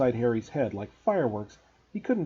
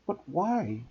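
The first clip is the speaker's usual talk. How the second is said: urgent; 5 semitones higher, 3 dB quieter, slower than usual. Acted. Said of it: "Harry asked urgently".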